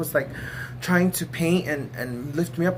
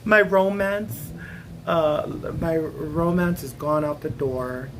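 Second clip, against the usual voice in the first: mock lament; slower than usual. Slow mock lament, laughing.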